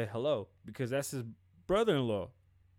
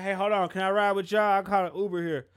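mock pleading ask; 4 semitones higher, 7 dB louder than usual.

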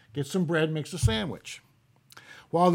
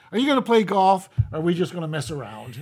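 exasperated; 4 dB louder than usual. Acted. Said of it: "looks at Jesus exasperated and says".

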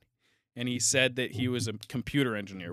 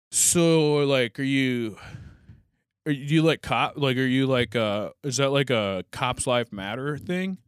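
hesitant, stop-and-start probing question; fumbling, loaded question. Retold or imitated. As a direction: imitate someone groping for wording, with halting restarts. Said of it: "that's how he said it".

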